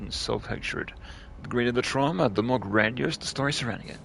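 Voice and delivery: steady document reading voice; reading aloud. Acted. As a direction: read the note out evenly. Reads an in-game document aloud.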